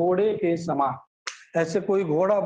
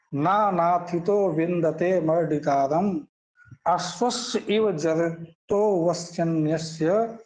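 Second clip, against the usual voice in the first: measured, deliberate recital of scripture; Sanskrit verse recitation. Acted. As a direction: recite the mantra word by word.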